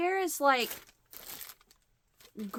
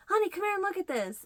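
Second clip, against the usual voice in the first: imitating husband; 11 semitones higher, faster than usual. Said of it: "the antique mall and say".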